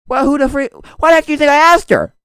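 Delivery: high, loud, mock-exasperated retort; acted indignation. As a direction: play it worked up and affronted. Acting out indignant character's answer.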